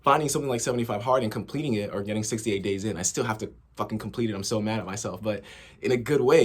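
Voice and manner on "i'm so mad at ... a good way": mock-mad with a smile; smiling. Real, not acted. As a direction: say it grinning, not really angry. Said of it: "I smile when I say that".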